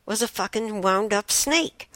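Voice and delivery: mounting panic in the retelling; rising alarm. Retold or imitated. Sudden snake discovery, rising alarm.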